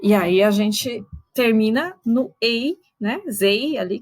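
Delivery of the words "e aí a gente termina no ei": slowed, with weight on the final "ei"; stress on ei. Shown as a demonstration. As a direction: mark "ei" as the last stressed syllable. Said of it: "a última sílaba tônica".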